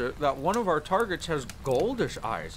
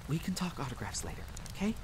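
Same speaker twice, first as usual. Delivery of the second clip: furtive aside; 9 dB quieter, faster than usual. Acted. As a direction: slip it to the rookie under your breath.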